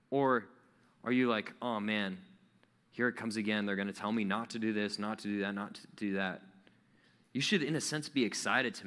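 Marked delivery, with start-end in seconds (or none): 1.6-6.4 lower, groaning reluctance; bored dread. Retold or imitated. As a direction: sound fed up before it starts. Dreading the sermon.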